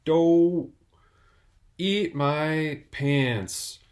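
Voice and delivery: loud, then slowly drawn-out cheeky line; bratty cartoon kid. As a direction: drag out eat my pants like a brat. Skit son's catchphrase.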